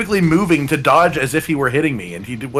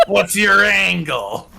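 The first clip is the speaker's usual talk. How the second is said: talk show host; 4 semitones higher, much slower than usual. Acted. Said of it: "Cotton Angle".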